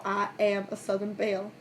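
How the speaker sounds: soft southern belle accent. Shown as a demonstration. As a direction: softly put on a Southern US accent. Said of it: "when you're doing a southern accent".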